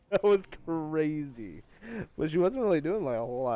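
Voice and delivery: excited. Real, not acted. Reacting to a wild fight.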